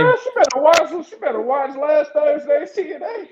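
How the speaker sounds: playful mock warning; teasing call-out. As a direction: needle her like a gossiping friend. Teasing call-out to ghosted woman.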